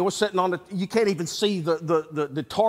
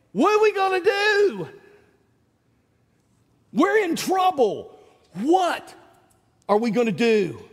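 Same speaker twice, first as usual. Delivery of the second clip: high, slow frightened cry; panicked servant; 8 semitones higher than usual. Retold or imitated. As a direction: voice the servant terrified of the army. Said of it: "Remember what he said".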